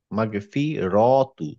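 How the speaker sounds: "মাগফিরাতু" said slowly and clearly, "রা" kept open; slow correction. Shown as a demonstration. Teacher slowly correcting the student's misreading. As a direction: spell out "মাগফিরাতু" slowly, syllable by syllable. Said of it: "ও, আগ মাগফিরাতু".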